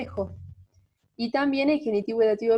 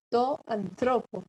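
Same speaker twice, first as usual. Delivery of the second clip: slow to anthropo, stressed on THRO; accent moved along; slower than usual. Shown as a demonstration. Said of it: "Va a correr el acento una sílaba".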